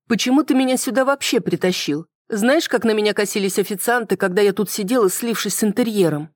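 put-upon woman griping about a dull stakeout; bored, peeved young woman. Acted. Bored woman complains to narrator.

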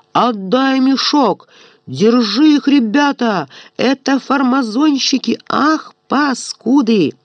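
shouting. Acted. Eropkin yelling at thieves.

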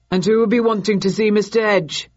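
suspicious barman questioning; inquired. Acted. Innkeeper asking Thursday who wants Mr Edge, loud and suspicious. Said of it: "inquired the innkeeper".

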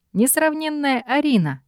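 high, grand, pompous exclamation; hammy stage actor. Acted. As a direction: proclaim it like a theatrical herald. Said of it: "пафосно воскликнул он". (пафосное восклицание)

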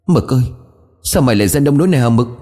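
anguished wail. Acted. Ôm xác chó, kích động.

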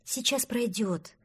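slow, gentle comfort. Acted. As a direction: soothe him softly. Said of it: "утешал его Простодурсон".

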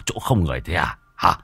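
rough threatening scold, speeding up; gruff scolding. Acted. Môn Phọt threatens the intruding ghost, gruff and rough. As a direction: bark at her to sit down.

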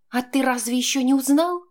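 woman's voice, tearful and defiant. A narrator's reading. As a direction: she squeezes out a bitter challenge. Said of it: "выдавила она".

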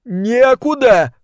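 high, loud drawn-out wail; anguished moan. A narrator's reading. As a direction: moan the word out in lovesick despair. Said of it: "простонал Милт". (протяжно простонать)

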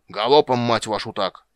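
loud, rough urging, easing at the end; yelled curse. A narrator's reading. Dwarf leader hurries his lads on, yelling. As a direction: yell and swear at the lads. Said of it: "завопил Ярпен Зигрин".

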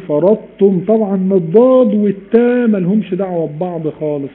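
normal talking voice

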